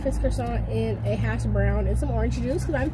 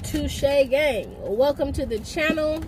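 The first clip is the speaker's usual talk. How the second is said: famous intro; slower than usual. Real, not acted. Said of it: "I gotta do my intro, my famous".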